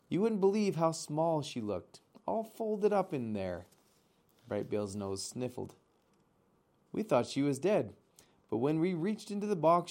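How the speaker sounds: a chatty animal saying hello again; a hint of a bright, friendly otter. Otter tells the gosling a story.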